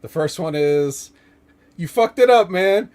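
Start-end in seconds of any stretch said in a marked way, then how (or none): 1.8-2.9 loud, higher, furious yell; angry yell. Retold or imitated. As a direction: bark it at him like he blew it. Repeating a quoted angry line.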